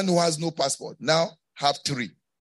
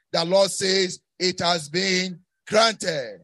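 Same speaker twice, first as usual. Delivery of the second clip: emphatic preaching. Real, not acted. Preacher assures congregation their history will change, emphatic. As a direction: build to a ringing proclamation.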